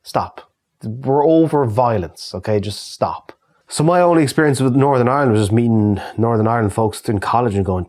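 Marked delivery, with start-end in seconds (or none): 0.0-3.3 weary exasperation. Retold or imitated. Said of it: "anyone in the Republic are like".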